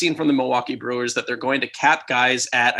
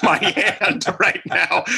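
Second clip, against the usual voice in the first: puzzled stranger; 5 semitones higher, much slower than usual. Retold or imitated. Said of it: "So it was just like".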